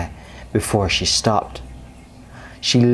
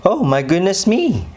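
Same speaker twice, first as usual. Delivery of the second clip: high, startled squeak; alarmed squeak; 8 semitones higher than usual. A narrator's reading. Mouse squeaking in alarm at the pig. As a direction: squeak it out in fright. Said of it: "squeaked little Miss Tiny in alarm".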